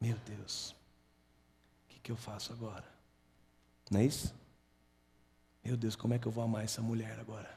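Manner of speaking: soft, whispered mutter under the breath. Explaining meditation as talking softly to yourself, showing how: soft low murmur to oneself. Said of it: "falar baixinho consigo mesmo... em voz baixa e suave. É quando você fala assim".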